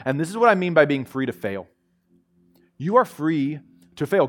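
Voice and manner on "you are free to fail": usual speaking voice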